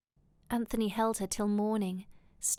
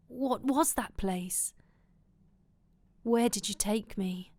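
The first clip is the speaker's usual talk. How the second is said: mildly panicked questioning. A narrator's reading. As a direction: demand answers with a touch of alarm.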